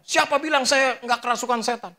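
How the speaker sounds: high-pitched mock outburst; acting out an angry retort; retold abuse. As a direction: hurl it back like an indignant accuser, imitated. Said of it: "saya dikata-katain".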